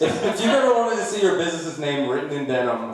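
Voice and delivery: talking around a lip of dip; lip full of dip. Real, not acted. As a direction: mouth full of tobacco. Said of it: "did you just come from the dentist?".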